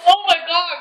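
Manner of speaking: puckered, sour-struck voice; eating sour candy. Real, not acted. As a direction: mouth full of sour candy. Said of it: "it's so sour".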